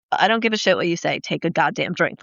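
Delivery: lightly voiced pushy friend giving orders; the crew friend ordering her to drink, mildly voiced low and stern; bossy friend. Friend bossing runner to drink.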